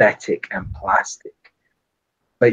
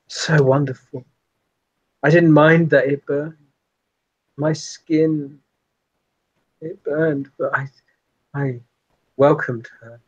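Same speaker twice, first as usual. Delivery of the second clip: haunted vampire reflection. Acted. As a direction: relive old horror, lingering.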